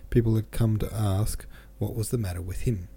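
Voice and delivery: steady novel reading voice with light character quotes; measured literary reading; audiobook narration. A narrator's reading. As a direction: read the chapter to listeners, unhurried. Reads the novel chapter aloud.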